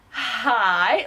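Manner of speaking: long, stretched hi; drawn-out phone greeting. Retold or imitated. Vlogger answering the long-awaited phone call, drawn-out greeting. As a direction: answer with a lingering, rising greeting. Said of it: "after the first ring".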